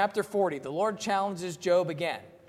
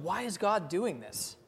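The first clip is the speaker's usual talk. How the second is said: a hint of a bewildered believer asking why; voicing the doubter. Preacher voicing a hurting listener, mildly pleading. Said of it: "easy to ask the question".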